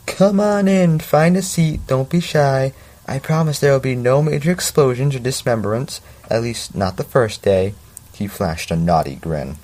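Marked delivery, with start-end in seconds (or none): 0.1-7.7 higher, cheery Southern teacher welcome. Acted. Teacher welcoming his new class in a higher Southern voice. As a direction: play a small energetic Southern science teacher. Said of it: "Why is it always Southern?".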